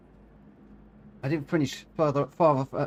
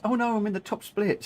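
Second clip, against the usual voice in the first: quoting Terry; 7 semitones higher than usual. Retold or imitated. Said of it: "Terry says".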